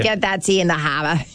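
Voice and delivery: hammed-up Boston accent; playful Boston accent with dropped R's. Shown as a demonstration. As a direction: show off your homemade Boston accent. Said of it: "that's my Boston accent".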